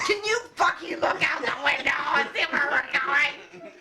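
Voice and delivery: laughing mock shout; retold yell. Yelling at coworker David to look out the window, laughing. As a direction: bark it half-laughing.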